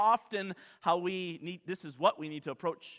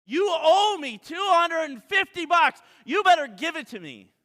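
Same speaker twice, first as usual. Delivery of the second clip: loud, higher threat; angry demand; 9 semitones higher, 10 dB louder than usual. Acted. Servant threatening the fellow servant, loud angry shout. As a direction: threaten him to pay up. Acted debtor quarrel.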